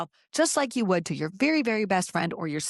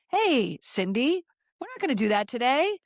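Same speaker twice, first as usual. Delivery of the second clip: firm self pep talk; 4 semitones higher than usual. Pretend. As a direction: scold yourself kindly like a friend. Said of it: "And you gotta say".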